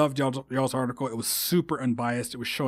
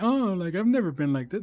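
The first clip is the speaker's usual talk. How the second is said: mock hometown people; 5 semitones higher than usual. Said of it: "So if you're like".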